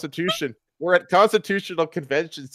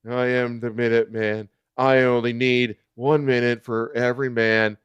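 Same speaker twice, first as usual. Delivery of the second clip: lower, deliberately cool hero line; incredible coolness; 3 semitones lower than usual. Acted. Garfield introduces himself to founders, lower cool voice. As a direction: redo it lower and smoother, cocky cool. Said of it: "said with incredible coolness".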